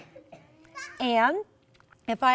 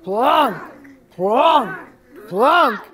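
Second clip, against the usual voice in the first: deeper voice; 2 semitones higher, 8 dB louder, much slower than usual. Shown as a demonstration. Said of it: "Deeper voice".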